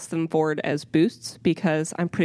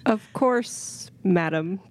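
through gritted teeth; slower than usual. Acted. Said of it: "My teeth are only slightly gritted".

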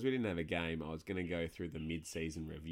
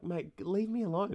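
much higher, louder mock pleading; mock exasperated plea; 13 semitones higher, 6 dB louder than usual. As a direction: squeak it out like a fed-up victim. Retelling his exasperated retort.

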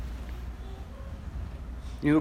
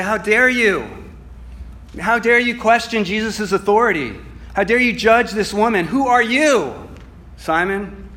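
indignant rebuke; 4 semitones higher than usual. Pretend. Preacher voicing his own indignation at Simon. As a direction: scold him like you have caught him out. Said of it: "just be indignant".

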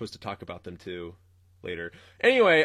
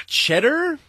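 mock customer; 3 semitones higher, 6 dB louder than usual. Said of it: "exactly what he was doing".

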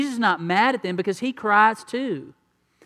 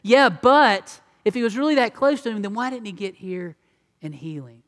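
skeptical onlooker; 2 semitones higher, 4 dB louder than usual. Retold or imitated. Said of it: "others said".

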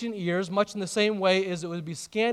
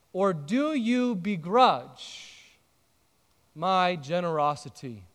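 gentle correction. Retold or imitated. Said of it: "He says".

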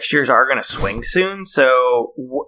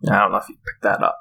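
normal talking voice

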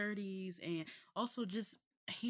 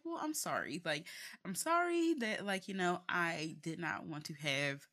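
sarcastic apology; 3 dB louder than usual. Retold or imitated. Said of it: "And I was like".

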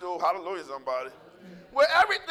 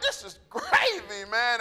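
put-on carefree kid; slower than usual. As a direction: drag it out like a lazy happy kid. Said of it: "They're just like".

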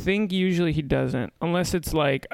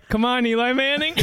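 higher-pitched mock heckle; retold teen jeer; 7 semitones higher, 3 dB louder than usual. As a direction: imitate kids razzing a bad throw. Retelling kids jeering his bad throw.

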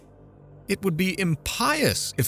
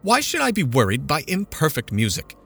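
mother threatening the committee, indignant; indignant complaint; 6 semitones higher than usual. A narrator's reading. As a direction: threaten to go over their heads.

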